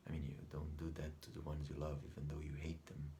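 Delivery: soft, half-whispered admission; hushed confession. Acted. Son admits mixed love and hate for mother, hushed confession. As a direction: confide it under your breath. Grim confession about loved ones.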